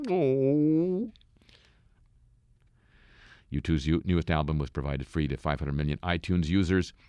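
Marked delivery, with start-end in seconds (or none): 0.1-1.1 high, put-on little "oh"; a squeaked startled oh; mock surprise. Mock gasp after reading a quote.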